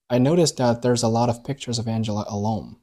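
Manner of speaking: alone slowed and lifted at the end of the line; stress on alone. Shown as a demonstration. Teacher modelling the whole sentence, stress on alone. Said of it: "所以第一句话串起来就读成了".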